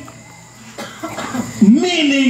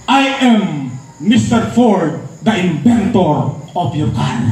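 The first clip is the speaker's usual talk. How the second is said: hot-headed mechanic; 7 semitones lower than usual. Retold or imitated. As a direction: deliver it like a proud mechanic with a short fuse. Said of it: "Sabi nitong mekanikong mainit ang ulo".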